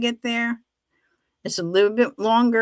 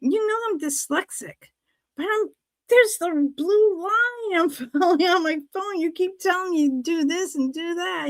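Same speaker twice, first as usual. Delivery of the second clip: laughing protest; 9 semitones higher than usual. Retold or imitated. Arguing with son, laughing.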